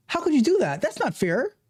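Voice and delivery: high, whining protest; high, childish complaint; whiny protest. Retold or imitated. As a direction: play the wronged crybaby. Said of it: "is a cry".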